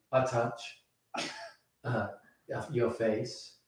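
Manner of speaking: hushed, unhurried step-by-step phone instructions; acted ad tone. Pitching the phone setup prompts to colleagues, soft ad voice. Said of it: "so in that tone, you going".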